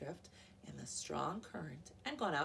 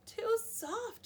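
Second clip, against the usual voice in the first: high protest; 6 dB louder than usual. Acted. Aluki sinks into bed.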